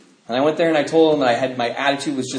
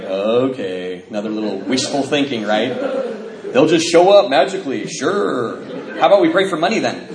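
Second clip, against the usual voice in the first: sarcastic reply. Retold or imitated. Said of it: "you know what you say when your sponsor says that".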